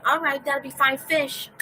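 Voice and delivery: loud, high mock improv character; goofy improv player. Gary derailing a coffee shop scene, imitated loud and high. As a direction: pitch it up and push it, imitating an oddball. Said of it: "And he'd be like".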